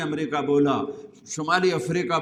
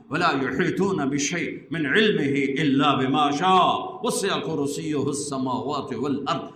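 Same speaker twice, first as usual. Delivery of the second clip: slow, rhythmic Arabic chant-like recital; Quranic recitation; slower than usual. Acted. Preacher reciting verses on God's power, measured recitation. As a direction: recite verse after verse in a steady, forceful cadence.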